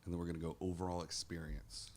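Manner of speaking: quiet unvoiced whisper. Real, not acted. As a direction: whisper it softly. Half-whispered aside.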